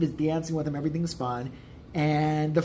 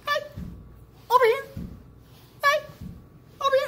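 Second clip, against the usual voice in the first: calling out; faster than usual. Retold or imitated. Friend jumping behind a tree hails driver, calling out. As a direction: call across a car park in spaced bursts.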